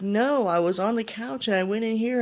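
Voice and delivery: a wife upset that she isn't believed; upset insisting. Retold or imitated. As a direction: plead to be believed.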